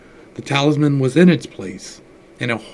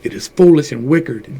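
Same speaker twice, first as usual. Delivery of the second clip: usual speaking voice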